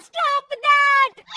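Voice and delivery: slow, very loud, drawn-out demonstration; forceful angry dare. Acted. Mother-in-law pushes daughter-in-law to say it, forceful. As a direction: boom it out slowly. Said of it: "सास के जोर देने पर".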